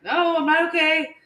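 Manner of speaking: high, loud tearful reply; mock bawling. Bawling mom answering her son Eli, mock tearful wail. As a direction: wail it as if still crying, hammed up. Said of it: "I'm, like, bawling still".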